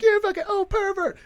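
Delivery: very high shrieking insult; mock shriek. Girl shrieking at the driver, very high pitch. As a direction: shriek it like an outraged teen. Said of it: "She's like".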